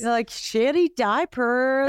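a weak, slow mock American accent; bad American accent. Teasing her co-host in a bad American accent. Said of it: "that was the worst American accent".

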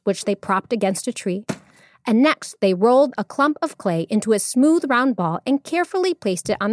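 expressive storyteller reading; measured, animated storytelling; story narration. A narrator's reading. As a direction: read it like a tale for children.

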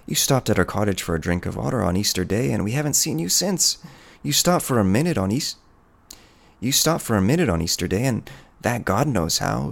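high-pitched, plaintive peasant woman; pleading peasant woman. Acted. Woman reproaching the hunter for staying away, increasingly high and pleading.

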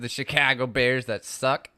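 lightly put-on Chicago accent. Shown as a demonstration. Co-host mocking the Bears, Chicago accent. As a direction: talk like a Chicago sports fan. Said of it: "they do accents on Saturday Night Live".

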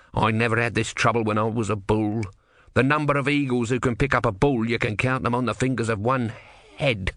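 testy little god; grumpy tortoise god. Acted. Tortoise speaks.

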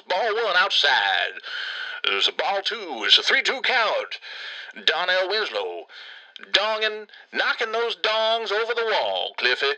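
slow, drawn-out umpire-style baseball call; mock play-by-play. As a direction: call the pitches in long, savoured words. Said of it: "I should be calling balls".

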